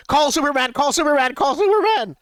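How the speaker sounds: high, urgent repeated yell. Acted. Derek yelling to the others as they run, high loud shout. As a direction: shout it like a call for help on the run. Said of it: "yell out as we're running".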